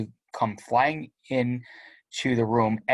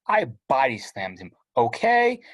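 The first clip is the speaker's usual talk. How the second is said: sarcastic snap. Real, not acted. Sarcastic teen to mom.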